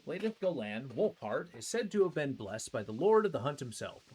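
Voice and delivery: storyteller reading item lore. Acted. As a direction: read it like a legend. Reads item lore aloud.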